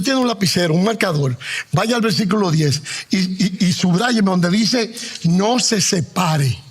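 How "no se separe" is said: No se separe, slow and stressed on no; underline this. Shown as a demonstration. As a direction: dwell on No se separe. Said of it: "Subráyelo".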